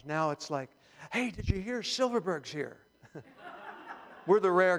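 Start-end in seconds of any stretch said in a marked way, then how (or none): 1.1-2.8 higher, lightly acted excited news; eager gossip. Churchgoer spreading word of a visitor, excited. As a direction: call out a novelty, falling at the end. Today's congregation reacting to Jewish visitor.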